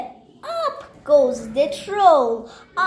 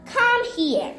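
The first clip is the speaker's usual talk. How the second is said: high troll voice; 8 semitones higher than usual. Acted. Troll calls to goat.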